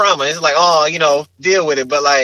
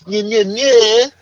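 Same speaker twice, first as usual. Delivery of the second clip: higher toothless fake-French babble; mock French; 5 semitones higher, much slower than usual. Skeptic ridiculing spoken French, high mushy nonsense syllables. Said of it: "Sound like they ain't got no teeth".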